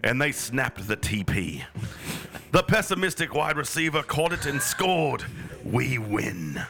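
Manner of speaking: mock British match report; half-serious British sportscaster; British accent. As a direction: read it out in a put-on British voice.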